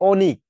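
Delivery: অনিক said as "OH-nik"; closed ও sound. Shown as a demonstration. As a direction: round the first vowel of অনিক to "oh". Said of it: "আমরা বলি কি". (অনিক, ও-এর মতো শুরু)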